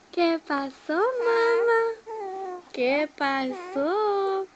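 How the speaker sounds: mamá lifted high and loud. Real, not acted. Parent cooing to her baby, high sing-song.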